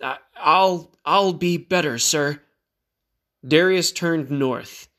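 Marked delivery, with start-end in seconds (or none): 0.0-2.4 higher, halting vow to improve; stammered promise. A narrator's reading. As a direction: stumble over a promise to your commander. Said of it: "she stammered".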